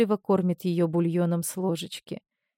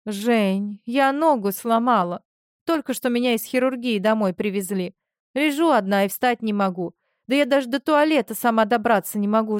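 fake sobbing; 2 semitones higher than usual. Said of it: "Марина уже рыдала в трубку".

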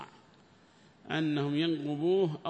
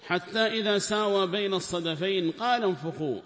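higher, much louder Quranic chant; verse recitation; 5 semitones higher, 8 dB louder than usual. Acted. Teacher recites the verse loudly to his class. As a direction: lift the verse out in full recitation voice.

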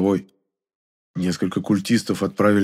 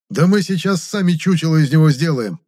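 heated, higher retort; flushed with anger; 8 semitones higher, 4 dB louder than usual. A narrator's reading. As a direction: fire it back, red in the face. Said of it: "побагровел толстяк".

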